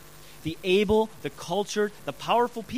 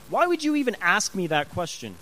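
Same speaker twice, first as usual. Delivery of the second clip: acted indignant question; a touch of offence at being asked; mildly annoyed. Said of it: "they get very annoyed".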